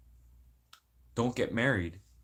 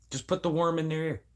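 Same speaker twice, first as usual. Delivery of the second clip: raised-pitch scheming line; planting an idea; 5 semitones higher than usual. Acted. Speaker scheming to plant doubts, higher-pitched voice. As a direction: say it higher, at normal volume.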